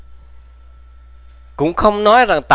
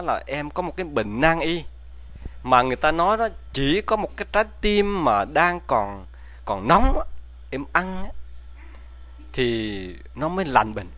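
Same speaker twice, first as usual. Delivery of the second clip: a soft, tearful plea, much quieter; 8 dB quieter than usual. A narrator's reading. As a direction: sniffle through the words, hushed. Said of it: "vừa khóc vừa nói". (giọng thì thào nghẹn ngào như đang khóc)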